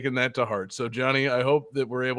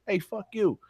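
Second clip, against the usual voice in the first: mock insult; 8 semitones higher than usual. Shown as a demonstration. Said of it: "just wanna be like".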